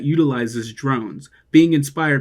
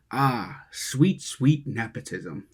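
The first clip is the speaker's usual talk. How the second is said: sarcastic; 4 dB quieter, much slower than usual. Real, not acted. Sarcastic savoring.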